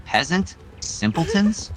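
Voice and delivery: a hint of smug flirtation; teasing suitor. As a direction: tease her like a smug courtier. Same teasing hero voice.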